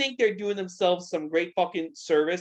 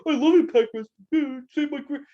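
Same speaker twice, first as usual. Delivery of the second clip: mock outraged wrestler; 4 semitones higher, faster than usual. Wrestlers angry at the podcast hosts defend the company, in a mocking tone. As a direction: play an indignant wrestler sticking up for his company. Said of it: "They'd be mad at us and be like".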